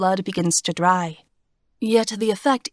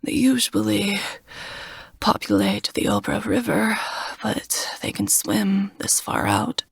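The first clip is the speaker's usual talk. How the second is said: weak whisper. Acted. Wounded Smock explains, weak.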